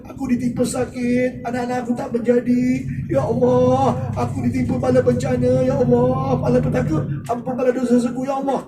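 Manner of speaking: imitating a tearful prayer. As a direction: plead with God as if near tears. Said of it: "sampai kita menangis".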